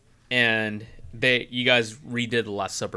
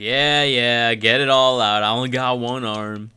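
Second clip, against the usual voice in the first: chill guy quote; 6 dB louder than usual. Retold or imitated. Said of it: "He's like".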